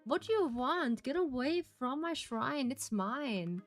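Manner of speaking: a lightly voiced angry ghost; possessive ghost. Voices ghost character in game.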